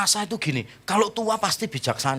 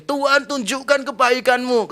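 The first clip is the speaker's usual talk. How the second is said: high, drawn-out plea to God; slow, raised-pitch begging; mock pleading prayer; 9 semitones higher, 4 dB louder than usual. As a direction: imitate a believer wailing a request upward. Acts out believer's plea when poor.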